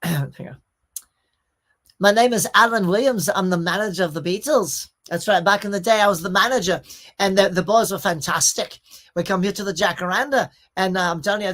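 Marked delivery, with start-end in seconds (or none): 2.0-11.5 put-on boastful old band manager with a nasal English accent; Alan Williams. A band's manager telling his story, nasal English impression. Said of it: "he had this nasally thing way up here".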